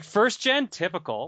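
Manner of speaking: high, loud snooty jab; mocking scoff. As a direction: sneer like an unimpressed know-it-all. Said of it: "He was like".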